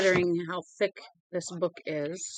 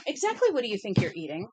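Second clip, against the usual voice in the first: raised, louder mock-stern question; 3 semitones higher, 5 dB louder than usual. Real, not acted. Owner demanding to know what her dog is eating, mock-stern.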